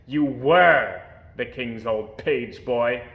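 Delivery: slow, loud cutting retort; snapping. Acted. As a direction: snap it back at him. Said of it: "snapped Lord Droon".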